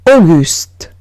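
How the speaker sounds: French name Auguste, modelled. Shown as a demonstration. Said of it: "Siguiente palabra es Auguste".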